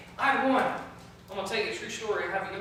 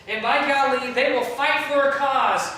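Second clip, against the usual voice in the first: louder, slow, hammed-up fervour; mock crusader zeal; 4 semitones higher, 8 dB louder, slower than usual. Pastor mocking activist kids, mock loud zeal. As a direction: punch it like a rally cry.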